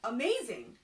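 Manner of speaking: loud delighted exclaim; amazed. Acted. Carpenter thrilled by the answer, loud amazed cry. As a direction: gasp it with joy. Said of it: "said the carpenter".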